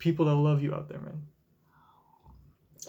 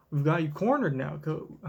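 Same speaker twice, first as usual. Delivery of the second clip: a hint of country twang on cornered; lightly put-on country accent. Kuyaku cornering Kobe, light country accent. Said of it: "let's get out of the accent".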